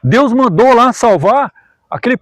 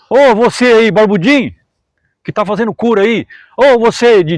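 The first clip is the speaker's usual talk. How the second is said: mock calling out to a stranger; chamado debochado; 2 semitones higher, 3 dB louder than usual. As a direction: imitate a casual, raised-voice hail. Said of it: "Ela não gritava assim". (chamado imitado, meio debochado)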